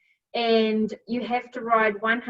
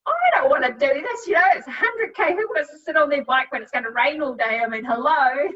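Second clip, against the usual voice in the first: whiny, high-pitched complaining, louder; a retold whinge, pitched up and louder in mock self-pity; whinging; 4 semitones higher, 4 dB louder than usual. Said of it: "I am whinging big time".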